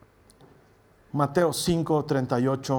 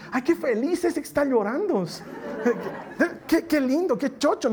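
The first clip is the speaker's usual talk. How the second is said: mock delight; 4 semitones higher than usual. Absurd happy reaction to crying.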